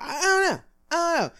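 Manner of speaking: high, hammed-up whimper of despair; mock crying. Venting about bump-and-run drivers, mock crying. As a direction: fake a comic sob.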